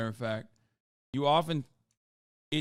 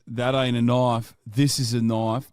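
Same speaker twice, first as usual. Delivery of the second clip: Australian movie tough guy; 5 semitones lower than usual. Retold or imitated. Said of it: "Famous Australian guy is".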